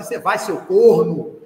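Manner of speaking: loud, slow scolding mother voice; mother ordering her son to school, loud and slow; stern mother. Retold or imitated. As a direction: bark it like a mother ending the argument. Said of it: "E minha mãe com meu pai, assim".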